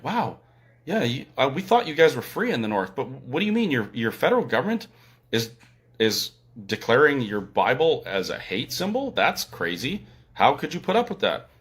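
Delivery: imitating amazed listeners, voice lifting on questions; mock disbelief. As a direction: act out a mildly incredulous stranger. Acting out amazed fellow detainees, facetiously.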